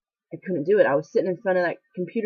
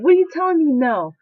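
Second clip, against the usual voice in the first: retold argument; 5 semitones higher than usual. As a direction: argue back hard, refusing to listen. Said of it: "I argued with her".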